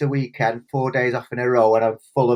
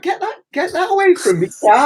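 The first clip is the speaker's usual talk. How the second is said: mock panic; 14 semitones higher, 3 dB louder than usual. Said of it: "So I was like".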